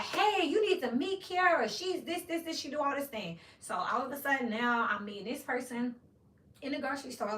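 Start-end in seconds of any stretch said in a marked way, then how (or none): 0.0-3.4 imitating Chuck. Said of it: "Chuck will be like".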